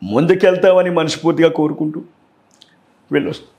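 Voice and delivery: lightly imitated politician's sign-off, in measured phrases with pauses; Jagan impression. Shown as a demonstration. Mimicry artist closing his demo for the host, light Jagan impression. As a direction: round off the mimicked speech phrase by phrase. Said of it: "ఆ voice అంత బాగా మీరు imitate".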